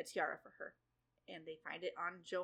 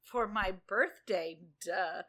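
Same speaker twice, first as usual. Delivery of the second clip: bratty; 5 dB louder than usual. Retold or imitated. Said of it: "Snow's like".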